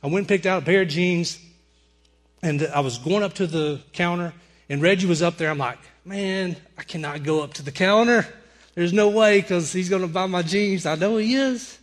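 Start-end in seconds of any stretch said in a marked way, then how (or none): 6.0-11.8 retold inner protest, rising at the end; exasperated protest. Man avoiding the counter where Reggie waits, exasperated protest. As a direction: work yourself up into a mock-anguished refusal.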